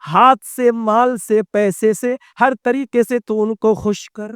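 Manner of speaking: preaching. Acted. Urdu sermon to congregation.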